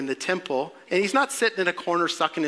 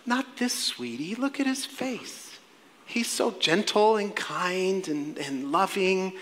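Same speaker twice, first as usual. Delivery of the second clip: softly cooed, drawn-out mock protest; gentle acted cooing; doting mother; 4 dB quieter, slower than usual. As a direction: play a mother gushing over her baby. Doting mother defends her baby.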